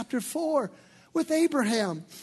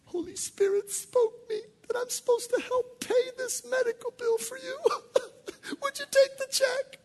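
much higher, whiny, half-sobbing mock plea; mock crying do-gooder; 12 semitones higher than usual. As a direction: ham up a teary, pious offer. Mock of giving helper.

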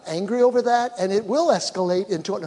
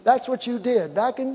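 higher, louder nagging accusation; a spouse dredging up old grievances, raised and accusing; 6 semitones higher, 3 dB louder than usual. Retold or imitated. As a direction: throw the past in their face. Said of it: "Don't say".

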